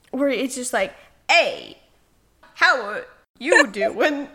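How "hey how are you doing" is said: slow, drawn-out, a bit louder party-guy greeting; lightly voiced cliché dude saying hi at a party; party guy impression. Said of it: "that one impression that every guy in his twenties does at a party".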